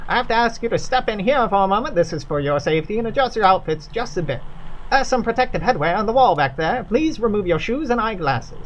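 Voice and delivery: put-on a courteous host with a light Kentucky accent. Doolittle instructing visitors on safety, light Kentucky accent. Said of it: "I'm running out of Kentucky accent variations".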